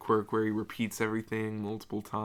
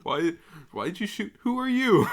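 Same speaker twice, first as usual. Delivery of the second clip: laughing mock quote; 8 semitones higher, 5 dB louder than usual.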